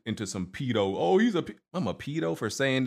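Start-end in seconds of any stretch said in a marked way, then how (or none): 1.0-1.5 mock accusing. Mocking Twitter accusers.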